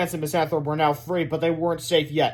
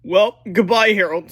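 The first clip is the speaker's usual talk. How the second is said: put-on boy's farewell; 4 semitones higher, 9 dB louder than usual. A narrator's reading. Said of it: "said George".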